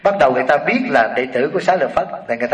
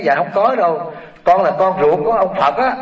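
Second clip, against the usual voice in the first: a lightly voiced, higher child monk; young novice voice; 4 semitones higher than usual. Novice Rahula telling the lady he is Buddha's son, childlike. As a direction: answer politely like a small boy.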